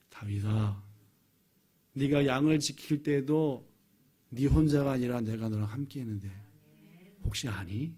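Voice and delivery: low, tender voice of God to David; gentle reminder. Acted. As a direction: ask softly, as a father reminding his child. (낮고 다정하게 일깨우는 목소리)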